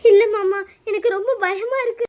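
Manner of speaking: acted crying protest, loud at first; tearful fear. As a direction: protest fearfully through tears. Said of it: "நீ அழுகாத". (பயத்தில் அழுது மறுக்கும் குரல்)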